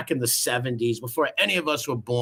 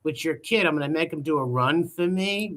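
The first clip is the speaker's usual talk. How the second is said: lightly voiced mock wiseguy, higher; mock mob cousin on the phone; mocking Georgie; 4 semitones higher than usual. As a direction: mimic the made-up cousin. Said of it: "What the fuck world do you come from".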